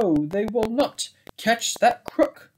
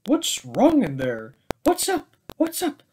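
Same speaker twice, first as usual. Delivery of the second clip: excited call; 7 semitones higher than usual. Acted. Bears call out in story.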